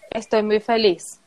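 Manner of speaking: flat, lifeless happiness. Shown as a demonstration. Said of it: "No puedes decir".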